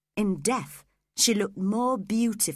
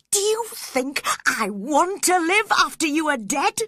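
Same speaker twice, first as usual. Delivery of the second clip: anguished shouting; 9 semitones higher, 7 dB louder than usual. Acted. Heathcliff accusing Catherine of breaking his heart, shouting. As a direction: hurl the blame at her.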